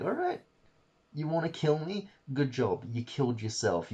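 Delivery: starts with a sudden high squeal on "All right", then settles into a mock-crazed taunt; unhinged Doctor. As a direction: play him gloating as he briefly goes mad. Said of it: "he goes full on insane".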